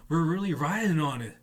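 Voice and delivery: high, thrilled shout of joy; excited riders. Retold or imitated. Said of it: "they're going".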